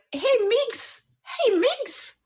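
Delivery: very high, drawn-out mimicked call; imitating his greeting. Actress mimicking his catchphrase for the host, high-pitched singsong imitation. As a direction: pitch it way up in an affectionate impersonation. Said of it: "he'll be like".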